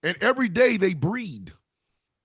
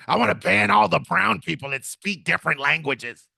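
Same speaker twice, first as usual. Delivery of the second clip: mock maga voice. Voicing a maga person.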